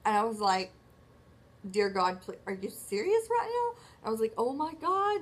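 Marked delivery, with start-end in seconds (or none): 1.7-3.8 alarmed disbelief. Retold or imitated. Retelling her panic at the doctor. 4.4-5.2 shocked. Retold or imitated. Retold reaction to the news.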